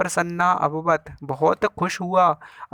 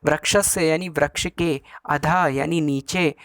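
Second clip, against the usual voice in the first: spells out तस्य and एव slowly, apart; teacher splitting the compound for students, slow; slow breakdown. Shown as a demonstration. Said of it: "यहाँ पे दो शब्द मिले".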